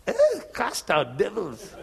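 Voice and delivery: slow, amused disbelief with a laugh; mock-baffled counselor; incredulous. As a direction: question it like it's absurd. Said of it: "And he said".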